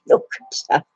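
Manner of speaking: very high squeaky coo. Real, not acted. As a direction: squeal it over a cute puppy. Cooing over the puppy.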